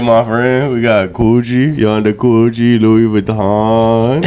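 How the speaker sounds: put-on slow, laughing street-vendor accent, only a light touch; vendor accent, lightly done. Street seller outside the Gucci store pitching knockoffs, in a light slow accent. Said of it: "You're moving awfully close to I T accent".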